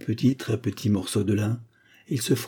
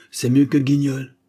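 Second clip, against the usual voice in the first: higher, louder delighted cry; Bark exclaiming; 5 semitones higher, 7 dB louder than usual. A narrator's reading. Lawyer flattering his client's wit, exclaiming loudly. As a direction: cry out in admiration. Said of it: "s'écria Bark".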